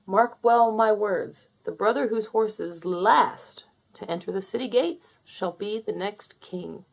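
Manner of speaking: a king declaring to his sons; a hint of a grave old king; regal king.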